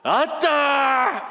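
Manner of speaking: loud, drawn-out Jeolla exclamation; big stretched Jeolla opener; Jeolla dialect. Shown as a demonstration. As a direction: holler it high in Jeolla style. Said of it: "전라도 버전을 제가".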